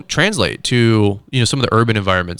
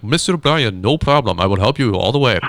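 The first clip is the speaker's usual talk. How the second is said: put-on South African accent. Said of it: "he's got this really thick accent".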